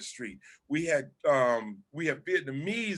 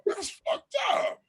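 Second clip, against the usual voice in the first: higher, shocked put-on voice; hammed-up shocked viewer; mock realization; 4 semitones higher than usual. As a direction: act like you just caught on. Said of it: "they hit different when you're older".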